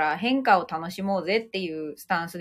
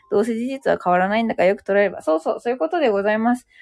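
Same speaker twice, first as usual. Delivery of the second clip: hurried wrap-up; fast, racing the clock; rushing before cutoff; faster than usual. Real, not acted. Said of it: "ちょっと駆け足でごめんなさいね".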